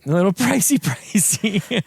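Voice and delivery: amused echo. Retold or imitated. Amused echo of co-host's phrase.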